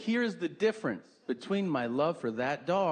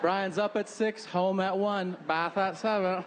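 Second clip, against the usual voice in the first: higher, mock-cheery announcement; oversharing parent; 5 semitones higher than usual. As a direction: recite the schedule in a pitched-up parent voice. Voices parent announcing the schedule.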